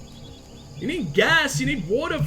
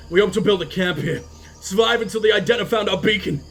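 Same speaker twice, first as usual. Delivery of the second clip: dramatic reading; 3 semitones lower than usual. Acted. Reads a crew audio log.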